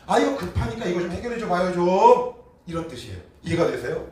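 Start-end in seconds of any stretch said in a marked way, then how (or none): 0.1-2.3 higher, louder nagging plea; impatient demand from a desperate son; pushy pleading. Retold or imitated. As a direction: whine like someone who wants it fixed now. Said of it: "히브리 원어의 의미를 조금 더 살려서".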